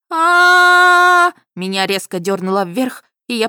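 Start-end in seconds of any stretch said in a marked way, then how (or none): 0.1-1.3 high, loud sudden scream; испуганный вскрик; startled scream. A narrator's reading. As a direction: shriek as you are yanked up. Girl jerked upward in claws.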